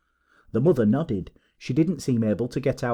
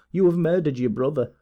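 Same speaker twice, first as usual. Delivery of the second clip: higher-pitched accusation; distressed cry; 5 semitones higher, 4 dB louder than usual. A narrator's reading. Mother accusing her daughter, distressed cry. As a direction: cry it out in reproach. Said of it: "cried Madame Charpentier".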